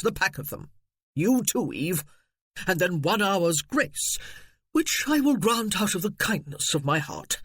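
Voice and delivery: a hint of a smug, condescending relative; mild snooty gentleman; pompous cousin. Cecil dictating terms.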